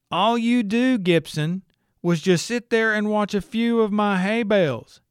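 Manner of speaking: a high, lightly voiced growling farmer; annoyed growl. A narrator's reading. Rancher grumbling at the investigator, annoyed growl. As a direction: grumble it like an irritated old rancher. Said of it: "add an annoying growl to his voice".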